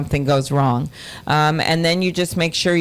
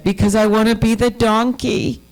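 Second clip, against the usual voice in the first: put-on higher, childlike insistent plea; little girl voice; 6 semitones higher than usual. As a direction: play the four-year-old who wants the donkey part. Daughter, four, answers mom.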